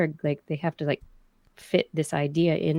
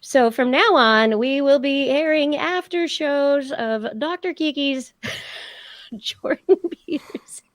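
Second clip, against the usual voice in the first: slow, higher, mock-solemn pundit voice; Jordan Peterson impression; 6 semitones higher, slower than usual. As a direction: announce it slowly like a pompous TV psychologist. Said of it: "Impersonation show".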